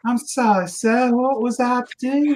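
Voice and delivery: put-on Southern accent. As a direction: imitate a Louisiana drawl playing innocent. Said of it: "She's still got her Southern accent from Louisiana".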